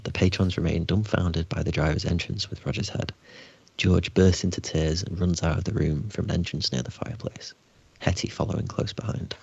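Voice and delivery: measured game master read; scene narration. Acted. Game master to players, resuming the scene, calm narration.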